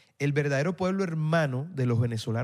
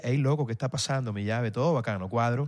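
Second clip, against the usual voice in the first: a light Barranquilla costeño lilt, imitated; Barranquilla costeño accent; 4 semitones lower than usual. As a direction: playfully mimic a Barranquilla local greeting a friend. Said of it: "tú vas a Barranquilla".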